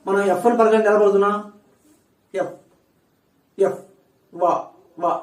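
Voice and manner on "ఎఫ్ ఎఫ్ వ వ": ఎఫ్ and వ as lip-to-teeth sounds; correct pronunciation. Shown as a demonstration. Teacher models labiodental sounds for students, correct pronunciation. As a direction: say ఎఫ్, then వ, each alone with lip on upper teeth. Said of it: "ఇది correct pronunciation".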